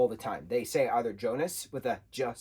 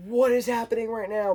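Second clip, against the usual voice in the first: mock disbelief; 9 semitones higher, 5 dB louder than usual. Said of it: "And I'm like".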